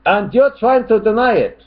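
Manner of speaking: high, loud put-on accusation; mock angry shout. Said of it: "he starts getting really angry here".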